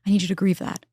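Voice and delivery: a friend telling you straight, firmly; tough love. Retold or imitated. Therapist friend telling her she already lost it, firm and high.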